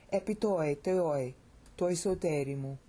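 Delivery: "Epi toi teoi", short break, "toi soterimu"; two measured phrases, "Epi toi teoi" then "toi soterimu"; paused cadence. Shown as a demonstration. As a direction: split the line after "teoi", falling before the pause. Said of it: "See how well that works?".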